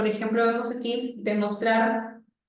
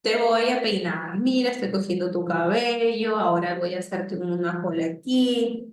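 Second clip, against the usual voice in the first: put-on describing to a child. Shown as a demonstration. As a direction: talk a child through what you do. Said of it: "Cómo son las charlas descriptivas".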